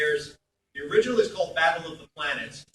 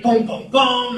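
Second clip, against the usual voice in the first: mimicked dramatic stings; 7 semitones higher, 14 dB louder, slower than usual. Imitating dramatic noir episode sounds.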